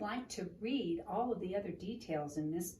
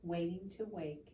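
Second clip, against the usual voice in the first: story reading. A narrator's reading. Reads picture book aloud.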